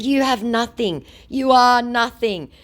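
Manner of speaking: high, deliberate put-down; mock scornful insult. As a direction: act out a cutting reply. Own insult in text quarrel.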